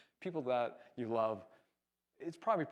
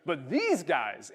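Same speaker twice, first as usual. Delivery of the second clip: loud, drawn-out mock accusation; pointedly loud; 5 dB louder, much slower than usual. Upset surfer aiming words at the windsurfer, pointedly loud. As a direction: stretch it out so others overhear. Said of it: "he says it really loud".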